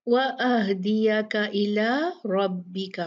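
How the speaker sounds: रब्बी said with a full heavy रॉ; slow recitation with heavy raa. Shown as a demonstration. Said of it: "रॉ heavy पढ़ना है आपने".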